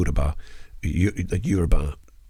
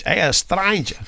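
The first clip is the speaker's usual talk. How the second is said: put-on high, lightly accented Indian greeting; retried Indian accent; 10 semitones higher, 4 dB louder than usual. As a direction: try the Indian lilt again. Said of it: "Sorry, that sounds Spanish".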